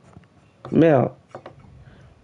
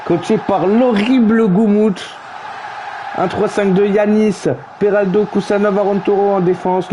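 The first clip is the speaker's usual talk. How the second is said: lineup announcer; 2 semitones higher than usual. Acted. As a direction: read the team sheet like a stadium announcer.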